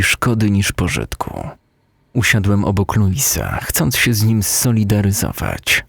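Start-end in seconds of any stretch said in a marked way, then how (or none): none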